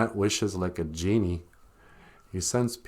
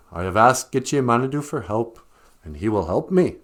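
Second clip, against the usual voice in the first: indignant rabbit; 4 dB louder than usual. Acted. Rabbit lectures eagle.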